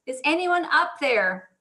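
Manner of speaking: high, loud cries for help, playing a stranded man; acted yelling for help. Jack hanging from a cliff hoping to be heard, yelling. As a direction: call up the cliff, high-pitched and urgent. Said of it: "And he was yelling".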